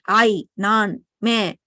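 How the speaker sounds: separate, stressed "I", "nan", "me"; stressed subject words. Shown as a demonstration. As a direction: give "I", "nan" and "me" each its own weight. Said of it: "we stress on the subject when you tell".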